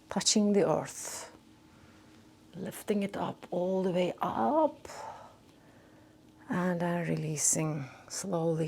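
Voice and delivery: soft, low, unhurried qigong guidance; guided meditation. Real, not acted. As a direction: guide them gently through each breath and movement, with long pauses. Leads slow breathing movement.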